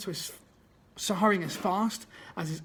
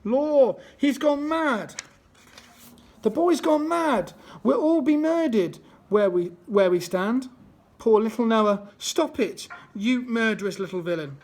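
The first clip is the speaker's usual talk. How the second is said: much louder, higher panicked shriek; scullery maid shrieking at the fight, higher and louder; 4 semitones higher, 7 dB louder than usual. Acted. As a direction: shriek in terror at the mad boy. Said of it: "They shrieked".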